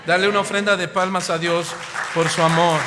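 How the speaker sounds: loud, fast call to applaud; preacher rallying the church to clap for God; rousing call. Real, not acted. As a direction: fire up the congregation. Calls congregation to applaud.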